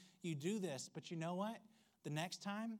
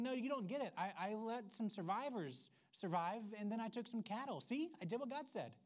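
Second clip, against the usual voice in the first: oblivious Saul; 4 semitones higher than usual. Retold or imitated. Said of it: "Saul replies to that saying".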